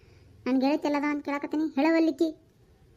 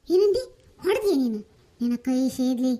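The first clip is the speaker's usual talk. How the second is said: shocked outrage; 3 semitones lower, 3 dB louder than usual. Acted. Shocked that he beat her.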